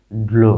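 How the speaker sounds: ড্লো drawn as one blended syllable, dlo; pronunciation demo. Shown as a demonstration. Teacher shows how D-L-O sounds, pronunciation demo. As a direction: model ড্লো with d run into lo. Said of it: "এরকম হবে".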